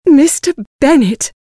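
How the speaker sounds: excited, high-pitched wife's call. A narrator's reading. Wife bursting to share news with her husband, excited. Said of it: "very excited".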